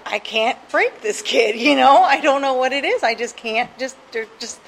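put-on a counselor throwing up his hands over a kid he can't reach; exasperated counselor. Counselor venting about the kid who won't open up, exasperated.

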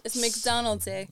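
McDonald's with a made-up Spanish ending; jokey fake-Spanish accent on McDonald's; mock Spanish. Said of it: "Everything is Spanish".

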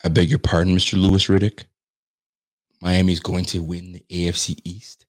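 loud, lofty outrage, each word spelled out; mock-formal indignation. Real, not acted. Host loudly protests the analyst's pick in mock-formal outrage. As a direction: play it as a sarcastic formal protest.

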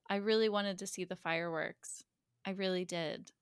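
quiet, wistful retold line; subdued parting confession; soft acted regret. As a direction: let it drop softly.

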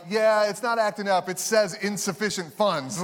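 blunt cashier. Retold or imitated. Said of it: "they're like".

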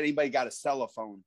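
low veteran wrestler impression; lightly put-on wrestler voice; Tony Atlas. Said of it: "remember how he said".

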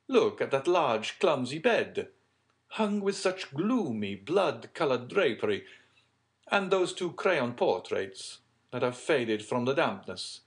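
loud, theatrical storyteller's character; dramatic count. Acted. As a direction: point out each grim detail with force. Plays Monte Cristo describing the room.

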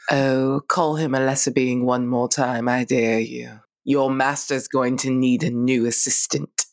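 low, menacing dare; low threat. Acted. Threatening the visitor.

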